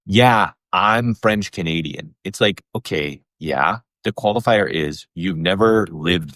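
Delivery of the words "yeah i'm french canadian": drawn-out, self-assured boast; imitating an unabashed bro; bold mock claim. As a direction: claim it slowly, without a shred of shame. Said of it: "to just be, like, cold, be like".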